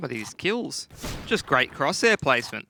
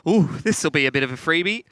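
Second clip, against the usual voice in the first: gleeful anticipation; 3 semitones higher, 5 dB louder, faster than usual. Acted. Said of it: "they've rubbed their hands together and gone".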